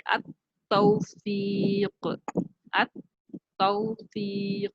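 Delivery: अत-तौफीक slowly with doubled t. Shown as a demonstration. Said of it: "ता के दोबारा आवाज आएगी".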